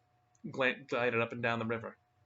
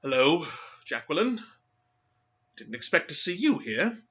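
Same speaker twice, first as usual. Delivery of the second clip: awkward; 4 semitones higher, 6 dB louder than usual. Acted. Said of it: "He said awkwardly".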